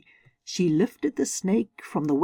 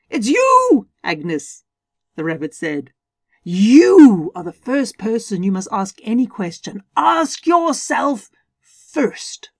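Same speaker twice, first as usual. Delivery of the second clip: excited rabbit; 2 semitones higher, 5 dB louder than usual. Acted. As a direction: let the rabbit squeak with glee. Rabbit speaks to Agnes.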